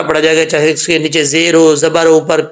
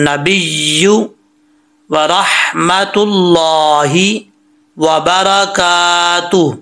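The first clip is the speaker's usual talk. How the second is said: slow, elongated Arabic recitation; read-along recitation; much slower than usual. Shown as a demonstration. Teacher leading students to read along, slow measured recitation. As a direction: stretch each long vowel, pausing between phrases. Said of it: "अब आपने मेरे साथ पढ़ना है".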